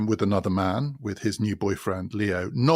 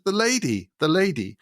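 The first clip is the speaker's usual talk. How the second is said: high, hushed-in-awe Christian mother; a mother's starstruck reverence, raised high; reverent mum; 8 semitones higher than usual. Retold or imitated. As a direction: say it as if naming a saint. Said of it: "she says".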